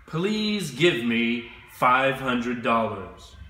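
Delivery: slow, careful model sentence for students to copy; slow model phrase. Shown as a demonstration. Teacher models the customer's request for learners, slow and careful. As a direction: spell it out slowly for the class. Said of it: "you will say".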